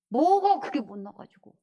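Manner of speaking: loud, slow, drawn-out protest; worked-up indignation. Real, not acted. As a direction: stretch it out in exasperation. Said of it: "어, 열받아".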